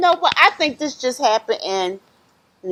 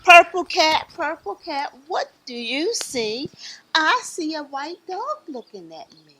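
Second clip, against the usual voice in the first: rhythmic picture-book refrain; reading to children; 7 semitones higher than usual. Acted. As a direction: chant it invitingly for little listeners.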